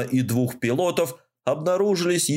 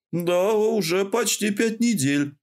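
простодушно; 8 semitones higher than usual. A narrator's reading. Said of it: "бесхитростно призналась девушка".

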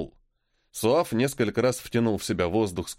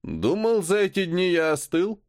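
through gritted teeth; 6 semitones higher than usual. Acted. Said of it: "Суав процедил".

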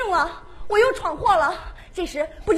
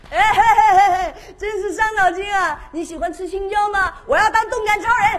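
put-on cheeky little boy squeal; Shin-chan doing a cheeky, brash voice; Crayon Shin-chan voice; 3 semitones higher, 4 dB louder than usual. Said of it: "是蜡笔小新版的".

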